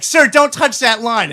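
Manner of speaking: mock stern, slow telling-off; retold yell. Cashier yelling at the customer not to touch the line, mock stern and slow. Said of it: "yells at me".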